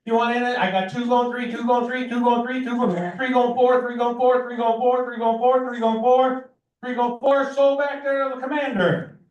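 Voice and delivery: rapid rhythmic auction chant; auctioneer. Real, not acted. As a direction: rattle off bids like an auctioneer. Auctioneer calling bids.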